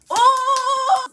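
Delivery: high, loud startled "Oh!"; caught-out gasp. Retold or imitated. Boyfriend caught deleting the call, startled high yelp. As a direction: yelp like you've just been caught.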